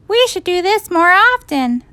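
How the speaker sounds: put-on high, happy child voice; pleased kids. A narrator's reading. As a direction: revel like a pleased schoolkid.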